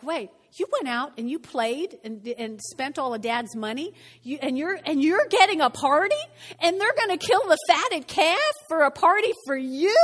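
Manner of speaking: indignation building to a high, loud protest; miffed older brother. Acted. Older brother protests his brother's party, increasingly miffed. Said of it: "gets a little miffed".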